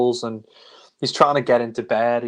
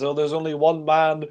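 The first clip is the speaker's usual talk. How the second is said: crazed villain, climbing to a high cackle; hammed-up hysterical villain laughing through his rant; Dreyfus; 6 semitones higher, slower than usual. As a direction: build from raised pitch to a drawn-out maniacal shriek. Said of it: "you see that Dreyfus says".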